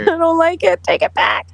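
loud, high comic complaint, then dropping; mock protest. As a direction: playfully refuse the gift, laughing around it. Joking protest at being a healer.

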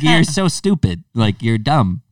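mock-scold yourself; slow scornful telling-off; self-scolding.

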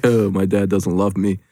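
slow, lightly voiced put-upon dad; a hint of a griping comic; Rodney Dangerfield. Host mimicking co-host's complaint about his dad, lightly voiced Dangerfield. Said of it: "like, a Rodney Dangerfield impression".

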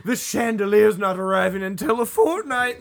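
lightly played swooning starlet; a hint of old Hollywood diva, laughing; movie starlet voice. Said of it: "I sound like a movie starlet".

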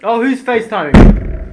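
slow, drawn-out surprised call; mock surprise. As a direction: act surprised at the ringing phone. Answering pretend call.

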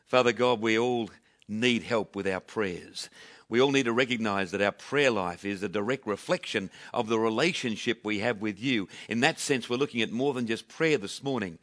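subdued, sincere public prayer. Real, not acted. Leads congregation in prayer.

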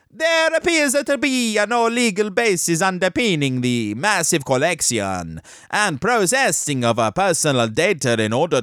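hammed-up mock Italian accent; put-on Italian newsreading. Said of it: "Italian accent indoors with the kids".

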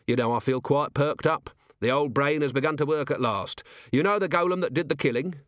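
lightly voiced commander recounting his cleverness; wry, pleased watch commander. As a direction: tell it briskly, with dry self-satisfaction.

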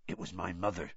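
soft and subdued; quietly. A narrator's reading. Hagrid confiding to Madame Maxime about his mother, quiet. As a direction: let it fall softly, almost to himself. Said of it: "said Hagrid quietly".

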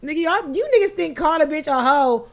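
high, pressed rant; heated rant. Real, not acted. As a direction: rant at them, fired up. Ranting about being called hoe.

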